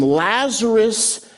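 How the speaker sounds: mild mock yell. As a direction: call out slowly to someone far off. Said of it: "he yells out into the tomb".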